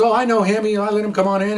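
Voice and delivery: mild impression of the woman letting them in; quoting the woman. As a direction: play her as innocent and breezy. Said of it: "She goes".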